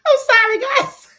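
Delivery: high-pitched helpless laughter; cracking up, can't stop laughing; laughing hard. Real, not acted. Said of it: "Queen got me over here done and crying, laughing".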